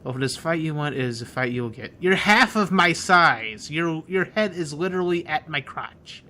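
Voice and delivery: put-on talking down to a small kid; bully taunting. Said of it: "It's like".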